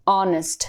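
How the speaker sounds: 'ऑनेस्ट' starting on the vowel, no H sound; silent H. Shown as a demonstration. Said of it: "ये हॉनेस्ट नहीं होता है". ('ऑनेस्ट' में H का उच्चारण नहीं, शुरुआत 'ऑ' से)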